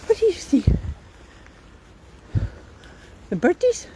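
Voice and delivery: high sing-song dog talk. Real, not acted. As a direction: owner asking her dog about the birds. Talking to the dog.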